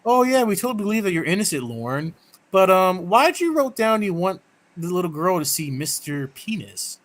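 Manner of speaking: fast, high, mocking fake sympathy; mocking sarcastic voice. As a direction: sneer it out with fake kindness. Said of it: "just to be like".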